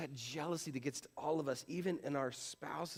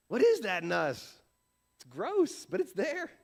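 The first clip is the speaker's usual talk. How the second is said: emphatic outcry; 8 semitones higher, 9 dB louder than usual. Real, not acted. Preacher exclaims at jealousy.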